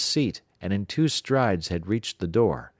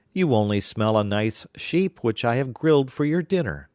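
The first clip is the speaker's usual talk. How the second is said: slightly higher soothing wife; giantess; 4 semitones higher, 4 dB louder than usual. Acted. Giantess lightly reassures the giant it is only sheep. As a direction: brush off his suspicion. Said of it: "said his wife".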